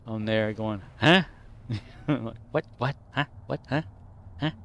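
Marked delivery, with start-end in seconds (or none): 1.0-1.2 put-on short, punchy Boston-accented huh. Imitating Ray Donovan at work, brief Boston-accent bark. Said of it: "they had the Boston accent thing". 2.5-4.5 put-on short staccato Boston-accented questions; repeated punchy mock Boston challenges. Throwing Ray Donovan around at work, curt Boston accent. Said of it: "they had the Boston accent thing".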